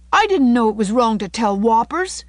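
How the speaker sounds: put-on high, loud childish wail; mock-tearful protest, without real sobs; sobbing boy. A narrator's reading. Davy pleads ignorance to Anne, acted sobbing. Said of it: "he sobbed".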